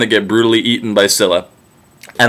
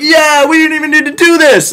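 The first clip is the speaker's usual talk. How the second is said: much higher mock-casual voice; high airy offhand voice; sheepish crew. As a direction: shrug it off like careless sailors.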